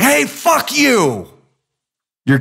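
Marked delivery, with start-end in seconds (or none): 0.0-1.3 a high, slow, drawn-out mock curse; mock road rage. Driver cut off on the road, mock angry curse. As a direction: fling it at the driver who cut you off, half in jest. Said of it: "you're like".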